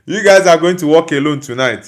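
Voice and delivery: laughing through the teasing line; laughing taunt. Acted. Teasing a Liverpool fan, laughing as he repeats it. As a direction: repeat the jab while laughing.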